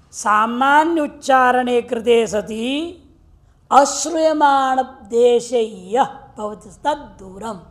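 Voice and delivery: slow, measured chant of the rule; sutra recitation. Shown as a demonstration. Teacher to students, slow measured recitation of the rule. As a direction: intone the grammar rule like scripture.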